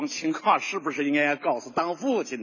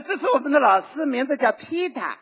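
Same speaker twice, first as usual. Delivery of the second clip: Shanghai accent; 6 semitones higher than usual. Shown as a demonstration. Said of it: "上海人这个舌头是平的".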